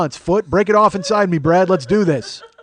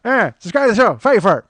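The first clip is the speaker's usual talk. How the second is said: louder, higher mock gypsy accent; Brad Pitt; 5 semitones higher, 5 dB louder than usual. Podcaster as the Snatch gypsy demanding subscribers, mock gypsy accent. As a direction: slur it like a scrappy gypsy fighter. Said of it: "He's like Brad Pitt".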